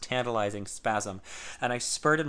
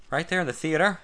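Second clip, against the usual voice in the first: choked; 6 semitones higher, 4 dB louder than usual. Acted. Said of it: "I choked".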